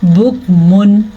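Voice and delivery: बुकमुन with a clear n, no ghunna; clear-n recitation demo. Shown as a demonstration. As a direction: recite बुकमुन, sounding the final n plainly. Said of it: "तो हम इसको पढ़ेंगे".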